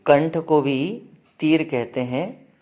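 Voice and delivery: slow, deliberate dictation pace; slow for memorizing. Shown as a demonstration. Teacher dictating the meaning slowly to students. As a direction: spell it out slowly so they can write. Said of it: "याद रखना".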